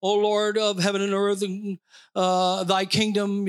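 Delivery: stiff, intoned mock-pious prayer; mock King James prayer. Pastor mocking mamby-pamby prayers, stiffly intoned. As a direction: parody a formal old-English prayer on an even note. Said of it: "this King James mamby-pamby pl-, prayer".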